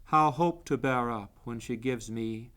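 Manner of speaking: measured, solemn recital of verse; poetry reading. Acted. Poet reading his own poem for a Library of Congress recording, poetry reading. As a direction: read it line by line, with deliberate pauses.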